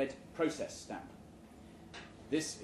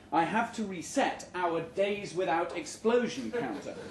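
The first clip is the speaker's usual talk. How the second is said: laughing; 2 semitones higher than usual. Real, not acted. Reader cracking up mid-sentence.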